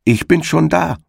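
high triumphant call across the field. Acted. Hedgehog's wife calls out triumphantly to the hare. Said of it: "rief ihm die Frau des Igels entgegen".

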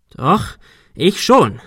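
defiant with a touch of panic; panicky. A narrator's reading. Cornered Arthur insists he can get down, panicky. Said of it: "Arthur klang selbst panisch".

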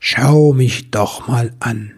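slow, gentle, kind invitation; warm and loving. Acted. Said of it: "Sie klang jetzt warm und liebevoll".

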